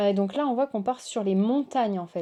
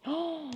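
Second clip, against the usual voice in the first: high, soft "oh" of wonder; awed gasp; 7 semitones higher, 7 dB quieter than usual. Real, not acted. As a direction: softly gasp in admiration. Émerveillée par la carte suivante. (oh admiratif, aigu et doux)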